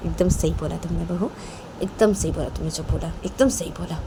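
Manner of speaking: approving aunt. Acted. Younger aunt tells Rahma she spoke rightly, quietly approving. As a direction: back her up quietly, keeping the voice down.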